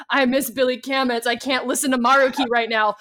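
a touch of tearful whining; mock sobbing. Crybaby playing Persona five, mildly mock sobbing. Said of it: "'cause I was just sobbing".

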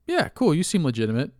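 high, breezy, naive voice; gullible welcome. Retold or imitated. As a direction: play the trusting mark letting the scammer in. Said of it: "And you're like".

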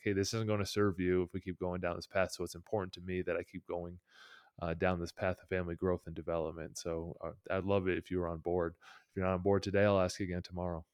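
mildly firm but unruffled parent; calm, steady. Acted. Parent answering kids who resist change, calmly. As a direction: keep it even and patient, no push. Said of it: "if you just handle it calmly".

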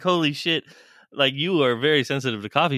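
high, fast astonished exclaim; holy shit disbelief; amazed. Retold or imitated. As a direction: blurt out your amazement. Amazed reaction, laughing high.

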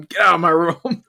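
a mild mock yell at the intruder; retold yell. Mild mock yell at the drugged kid in his room. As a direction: order him out, half-shouting. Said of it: "I start yelling".

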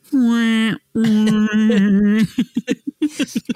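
high wah-wah trombone imitation; wailing sad-trombone noise, breaking into laughter; mock sad trombone. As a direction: voice a drawn-out comic failure sound.

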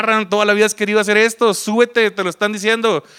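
high-pitched, insistent inner urging; urgent self-pep-talk. Retold or imitated. Talking himself into getting on stage, urgent self-pep-talk. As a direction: push yourself to seize the chance.

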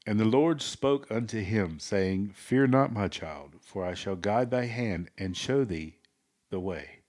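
mock-solemn preaching with dramatic pauses; pastor voice. Co-host reads the Lord's answer to laughter, mock pastor voice. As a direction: proclaim it like holy scripture. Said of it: "do it in your best pastor voice".

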